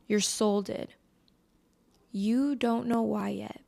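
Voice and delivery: ordinary talk, nothing marked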